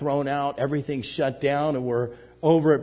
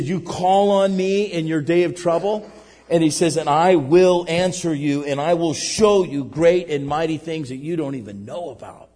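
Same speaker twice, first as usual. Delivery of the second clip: booming scripture quote; 2 semitones higher, 5 dB louder than usual. Acted. Preacher quoting God's promise.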